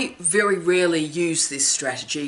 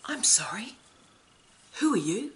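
imitated deadpan comeback, high and soft; quietly quizzical, each phrase lifting at the end; 5 semitones higher, 6 dB quieter than usual. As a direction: deliver a hushed, unruffled put-down with rising pitch. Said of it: "he would deliver it completely deadpan".

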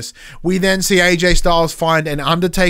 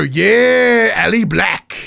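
much higher, louder, drawn-out yeah; imitating Otis greeting a rival; Otis impression; 5 semitones higher, 4 dB louder, much slower than usual. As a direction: hype it like a goofy big man. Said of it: "you just hear Otis go".

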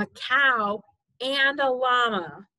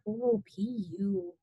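wrinkle your nose at the smell; mock disgust; 3 semitones lower, 7 dB quieter than usual. Reacting to a dirty diaper.

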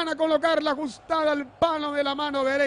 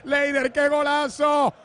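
excited goal call; 4 dB louder than usual. Real, not acted. Goal scored, commentator celebrates.

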